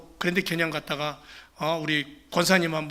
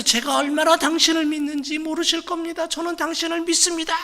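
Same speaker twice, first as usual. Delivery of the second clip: fervent declaration; 9 semitones higher than usual. Acted. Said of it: "힘을 다해서".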